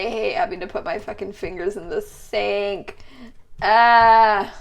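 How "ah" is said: disgusted groan. Real, not acted. Disgust at hands in sink.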